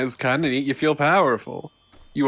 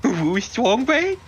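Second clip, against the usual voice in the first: Strong Bad voice; 9 semitones higher than usual. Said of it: "an Awu voice".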